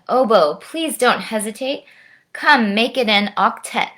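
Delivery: lilting, rhyming story narration; lively children's storytime voice; picture-book read-aloud. A narrator's reading. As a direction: read the verse expressively to children.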